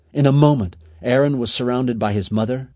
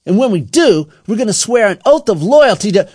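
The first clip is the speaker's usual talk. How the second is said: loud, high declaration; forceful, raised gang-leader voice; menacing announcement; 12 semitones higher, 9 dB louder than usual. A narrator's reading. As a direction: proclaim the threat to the gang.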